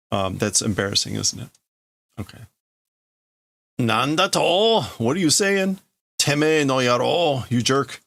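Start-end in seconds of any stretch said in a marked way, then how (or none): 3.8-8.0 indignant retort. Acted. Offended character retorts to his friend, high angry shout. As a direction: throw the insult back hard. Character snaps back in a quarrel.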